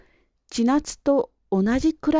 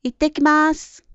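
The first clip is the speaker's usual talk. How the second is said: bright-spirited call, higher than narration; cheerful energetic voice; 6 semitones higher, 4 dB louder than usual. A narrator's reading. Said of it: "元気な声で言いました". (元気な声で)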